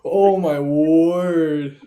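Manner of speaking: slow, loud laughing exclaim; laughing shock. Real, not acted. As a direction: stretch it out, cracking up. Reacting to the story.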